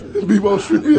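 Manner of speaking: slow drawn-out "B-Mo Trivia"; mock announcement. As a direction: stretch "B-Mo Trivia" like a grand title. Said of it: "you gave trivia your own name".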